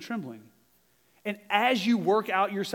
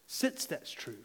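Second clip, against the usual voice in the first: hushed; 2 semitones lower, 10 dB quieter, slower than usual. Shown as a demonstration. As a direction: drop to a near hush on "Since that's true". Repeats phrase, second time hushed.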